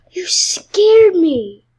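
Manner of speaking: breathy slow startled whisper; startled gasp. Real, not acted. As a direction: gasp it out, still shaken.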